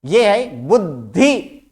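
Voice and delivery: बुद्धि said slowly, ending on a rise; slow demo. Shown as a demonstration. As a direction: present बुद्धि slowly to the class. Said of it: "द और ध". (बुद्धि को धीरे बोलकर दिखाएँ)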